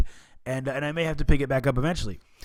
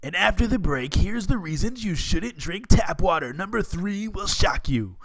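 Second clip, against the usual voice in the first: clickbait video narrator; 4 semitones higher than usual. Pretend. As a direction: tease it like a TV reporter. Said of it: "I feel like an investigative reporter".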